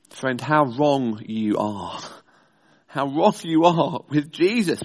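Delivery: slow, gentle correction; tender. Real, not acted. Preacher gently correcting the doubting listener, slow and tender.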